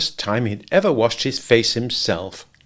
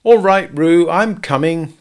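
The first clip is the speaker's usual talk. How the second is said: higher, louder call; 7 semitones higher, 6 dB louder, slower than usual. A narrator's reading. Christopher Robin calling to Roo while running, loud. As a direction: shout across the stream. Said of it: "called Christopher Robin".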